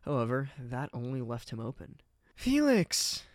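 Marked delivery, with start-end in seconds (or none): 2.4-3.2 high, loud anguished cry; a sudden, pained high cry; crying out his name. Acted. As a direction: call out to him in distress. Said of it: "Ingrid cried".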